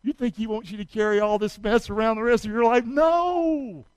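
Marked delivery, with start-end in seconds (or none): 2.8-3.8 1 emphatic no. Real, not acted. Answering his own question.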